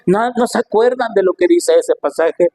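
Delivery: mounting rebuke to supposed experts; reproachful challenge. Acted. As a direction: chide the teachers who should know. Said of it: "como que les estuviera diciendo".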